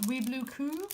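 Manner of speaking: shop name with a slight French accent; lightly Frenchified pronunciation; French-sounding. Real, not acted. Vlogger reading a shop name to viewers, kind of French. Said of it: "I said that kind of French".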